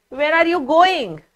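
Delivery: "Where are you going?" asked as a real question; question intonation. Shown as a demonstration. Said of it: "it helps me to speak also in the same way".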